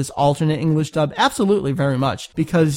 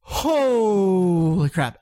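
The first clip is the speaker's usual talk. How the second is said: gasping for air after reading; out of breath; 4 semitones higher, much slower than usual. Real, not acted. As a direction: catch your breath, slowly. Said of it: "good job".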